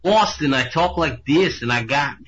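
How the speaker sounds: a clumsy mock Boston accent; bad Boston accent. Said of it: "That is the worst Boston accent".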